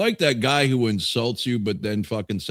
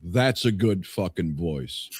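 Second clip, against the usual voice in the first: lowered mock-ceremonial delivery; slow mock-solemn verdict; 4 semitones lower, 3 dB quieter, slower than usual. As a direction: drag it out, like an official pronouncement. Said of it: "Now we can utter the words".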